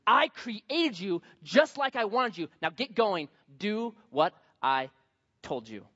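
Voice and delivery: acted stern command, slow and emphatic; angry God. God ordering a reluctant Moses to obey, mock angry. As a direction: spell it out like a fed-up creator. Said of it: "God gets angry".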